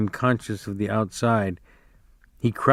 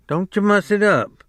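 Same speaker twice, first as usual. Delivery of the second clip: scolding; 9 semitones higher than usual. A narrator's reading. Wife scolds Lenny.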